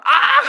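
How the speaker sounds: sudden very high cry of pain; sharp comic "argh" shriek; imitated yelp. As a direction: yelp like a kid smacked on the back. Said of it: "하는 소리 들리지 않겠습니까".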